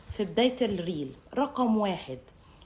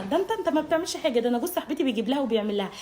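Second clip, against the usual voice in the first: higher, fast nagging wife; mock whiny comparison; 3 semitones higher, faster than usual. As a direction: nag him about friend's husband. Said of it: "المقارنه". (زوجة بتقارن بصوت متذمر وسريع)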